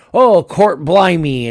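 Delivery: loud, drawn-out mock Cockney exclamation; Cockney accent. Game master slipping mid-session into the wrong accent, exaggerated Cockney. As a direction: slip into a hammed-up Cockney, pitched high. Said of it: "Cockney all of a sudden".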